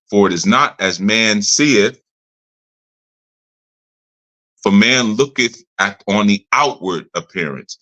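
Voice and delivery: slow, measured Bible reading with pauses; scripture reading. Acted. Preacher quoting Samuel to listeners on outward looks, measured scripture reading. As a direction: read the verse out deliberately, weighing the phrases.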